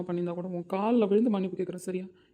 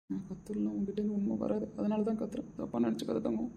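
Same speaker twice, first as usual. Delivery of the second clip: soft apology; 6 dB quieter than usual. Acted. Husband softens after shouting, apologising.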